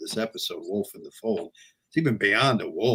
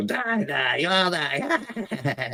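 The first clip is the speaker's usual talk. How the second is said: corny cartoon voice, very high, slow and squeaky; 9 semitones higher than usual. Imitating a villain's line, mocking how it sounded: corny cartoon Piglet voice. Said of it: "that corny cartoon voice he's got".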